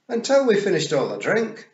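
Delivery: high, loud, helpful Scots pictsie; Daft Willie. A narrator's reading. Daft Willie helpfully giving Rob away, high Scots voice. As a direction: pipe up eagerly in high Scots. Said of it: "said Daft Willie helpfully".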